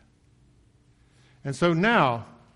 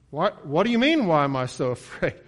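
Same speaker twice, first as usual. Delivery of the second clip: panicked retort; 5 semitones higher, 8 dB louder than usual. Retold or imitated. Disciples answer Jesus in panic.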